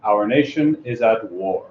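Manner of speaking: a hint of a solemn president, unhurried; presidential address. Reading the speech as if he were the President. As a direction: speak like a president addressing the nation. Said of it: "as convincing as the President of the United States himself".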